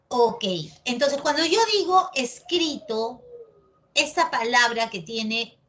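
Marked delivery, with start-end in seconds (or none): 2.1-3.2 "escrito" with the stress on CRI; teacher's stressed demo of "escrito"; stress on middle syllable. Shown as a demonstration. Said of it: "tiene una sílaba con mayor tonicidad".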